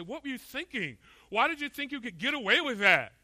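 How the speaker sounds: high-pitched acted exasperation; mock scolding in disbelief; indignant questioning. Voicing indignant reaction to athletes.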